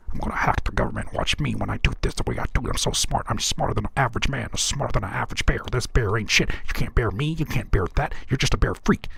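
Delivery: low, fast, droning mock of the rapper; mocking monotone rapper. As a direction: drone it out like a flat, self-serious rapper. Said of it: "You sound like you just ranting at your phone".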